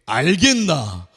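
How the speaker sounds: slow, drawn-out command; a stern sergeant asking if you got it; senior to a private. Retold or imitated. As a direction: senior soldier questioning a private. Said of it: "고참은 쫄병에게".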